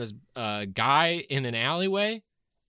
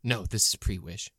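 false bravado. Acted. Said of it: "I was so, like, into my voice".

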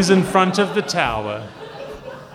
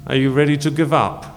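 booming echoing villain monologue. Acted. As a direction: savor each threat like a tyrant. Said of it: "I am the D M".

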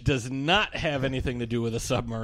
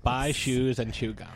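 put-on Valley Girl voice. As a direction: play a bored Valley Girl. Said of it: "Like a Valley Girl?".

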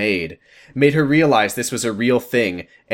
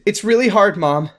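high, whiny mock-crying confession; hammed-up tearful; 5 semitones higher than usual. Daughter confesses guilt to her mom, mock crying. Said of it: "cry so hard that you".

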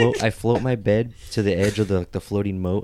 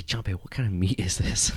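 suspicious questioning; 3 dB quieter than usual. Acted. Master interrogates servant.

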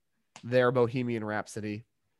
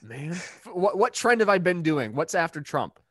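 higher "Man." in mock Biden voice; Biden impression; 7 semitones higher, 7 dB louder, slower than usual. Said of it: "Oh, Biden".

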